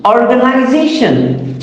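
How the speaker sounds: "organization" with a lighter beat on OR, main beat on ZA; primary and secondary stress. Shown as a demonstration. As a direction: demonstrate both stresses in "organization". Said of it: "So or is the secondary stress".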